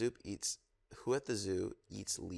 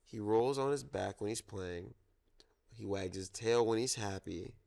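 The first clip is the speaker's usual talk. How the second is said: storytime reading. Acted. Reads zoo picture book aloud.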